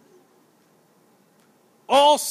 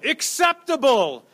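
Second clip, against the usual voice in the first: higher-pitched, lightly voiced official verdict; Romans' approval; 5 semitones higher than usual. Preacher voicing the Romans' ruling, lightly acted high approval. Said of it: "The Romans go".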